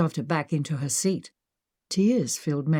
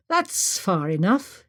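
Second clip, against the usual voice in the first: put-on slow, crisp British accent gunman; lightly voiced British thug, slow; a hint of British menace; slower than usual. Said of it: "he barked, in a crisp British accent".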